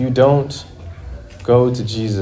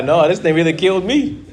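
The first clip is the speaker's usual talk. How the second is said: higher, laughing groan; laughing despair; 6 semitones higher than usual. Retold or imitated. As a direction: laugh through the defeat. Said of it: "you are".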